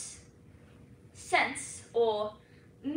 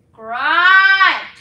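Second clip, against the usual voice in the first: loud, higher Scottish GRIND with stretched vowel; Scottish dialect; 5 semitones higher, 16 dB louder than usual. Shown as a demonstration. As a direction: roll out GRIND in broad Scots. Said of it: "Scottish is a highly amusing dialect".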